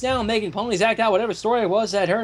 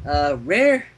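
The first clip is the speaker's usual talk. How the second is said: 1 careful diplomacy. Acted. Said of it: "she began carefully".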